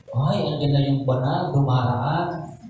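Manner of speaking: low, soft, sneering aside; mocking sneer. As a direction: mutter it as a mocking jab at a believer. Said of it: "At sasabi". (pabulong na panunuya sa dumaraang Kristiyano)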